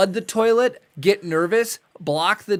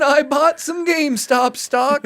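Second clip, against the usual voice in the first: put-on high, slow, raspy old man; a rambling old man reminiscing; 9 semitones higher, 5 dB louder than usual. Old man story bit.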